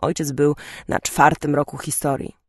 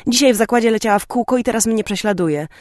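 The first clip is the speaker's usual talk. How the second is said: demanding; 6 semitones higher, 4 dB louder, faster than usual. A narrator's reading. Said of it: "zażądała".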